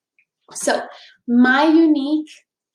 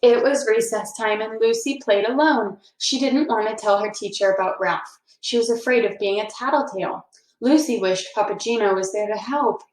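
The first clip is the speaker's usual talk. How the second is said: put-on reading a children's book aloud; story narration. A narrator's reading. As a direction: tell it gently to a class of kids. Reads a picture book aloud.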